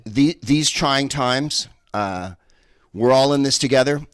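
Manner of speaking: sing-song cliché, ironic lift on all; mock cliché. Shown as a demonstration. Comic quoting the slogan to the crowd, mock. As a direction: parrot the slogan mockingly. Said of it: "hell no".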